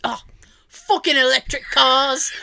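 grumbling imitation of a London cabbie; thick London accent. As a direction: curse it in a put-on London accent. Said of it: "like, that thick accent".

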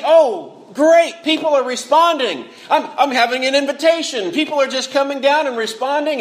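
mock delight at the crowd responding; imagined glad Jonah. Imagined happy Jonah quote.

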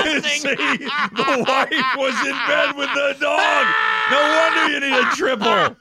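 웃음 섞인 높고 큰 외침; 웃으며 소리치듯 설명해; laughing shout. Real, not acted.

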